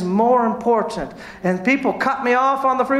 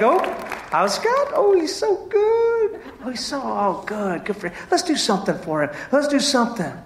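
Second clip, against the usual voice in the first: fond God voice. Retold or imitated. Pastor voicing God delighting in a churchgoer. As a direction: play God gushing over someone. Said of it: "God's like".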